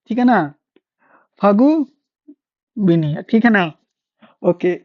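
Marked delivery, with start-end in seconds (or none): 1.4-3.2 फगुबिनिया drawn out syllable by syllable; very slow फगुबिनिया so students catch each sound; फगुबिनिया stretched out to teach the name; slow careful spelling-out. Shown as a demonstration. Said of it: "फगुनिया नहीं है ये".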